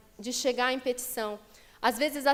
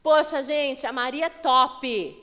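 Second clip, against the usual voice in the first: mock casual praise; 6 dB louder, slower than usual. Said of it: "Uma coisa é eu falar assim".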